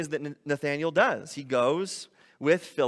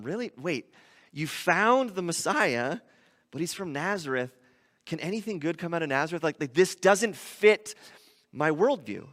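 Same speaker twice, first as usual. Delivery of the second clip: doubtful disbelief; 3 dB quieter than usual. Retold or imitated. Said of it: "It doesn't sit right with him".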